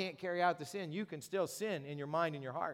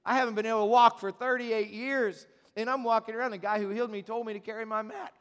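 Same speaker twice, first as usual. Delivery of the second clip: raised, louder disbelief; incredulous outburst; 4 semitones higher, 6 dB louder than usual. Acted. Healed man protests to the religious leaders, loud and incredulous. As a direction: blurt it out, amazed anyone would object. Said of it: "the guy's looking at him going".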